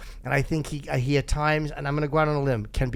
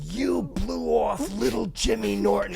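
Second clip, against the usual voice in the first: heckling fan; 7 semitones higher, slower than usual. Retold or imitated. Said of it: "the guy is yelling".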